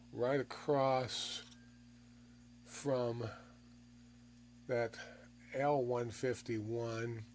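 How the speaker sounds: slow and quiet through a held breath; speaking around a held breath, barely audible; holding breath. Real, not acted. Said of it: "it's because I'm holding my breath".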